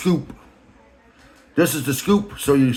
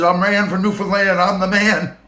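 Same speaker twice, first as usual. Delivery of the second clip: higher mock boss voice, slowing at the end; Rand's voice; 6 semitones higher than usual. The boss describing his looks, in a high mocking voice. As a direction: lampoon the boss rambling about himself. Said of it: "I'm just filling in voice".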